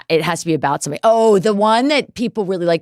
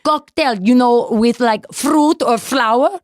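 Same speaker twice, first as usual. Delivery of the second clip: Sofia Vergara; 3 semitones higher, 3 dB louder than usual. Retold or imitated. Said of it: "she's like".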